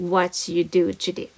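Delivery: slow, drawn-out teacher read; slow model reading. Shown as a demonstration. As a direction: read it out slowly for the class. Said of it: "tell us".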